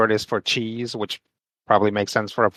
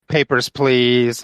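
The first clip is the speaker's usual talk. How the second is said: mock Nazi guard; 4 dB louder, slower than usual. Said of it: "he would say things like".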